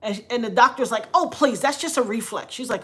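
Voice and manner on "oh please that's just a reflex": higher-pitched, scornful brush-off; dismissive scoff. Retold or imitated. Doctor dismisses the patient's hand grab, imitated scoff. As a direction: imitate a doctor waving it away.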